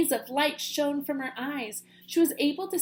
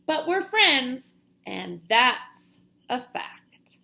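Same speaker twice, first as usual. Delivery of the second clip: warm and firm; 5 dB louder, much slower than usual. Acted. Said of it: "firm closing".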